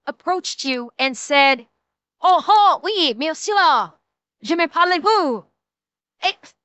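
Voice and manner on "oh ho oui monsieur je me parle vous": mock French dwarf, jolly "oh ho"; French accent. Streamer pretends to be a dwarf greeting chat, mock French accent. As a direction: put on a hammy French accent. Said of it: "was a French accent".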